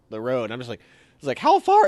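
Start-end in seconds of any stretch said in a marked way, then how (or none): 1.4-1.9 a sharp high call between running men; called-out question. Retold or imitated. Buddy shouting to him during the chase, high and sharp. Buddy calling while chasing.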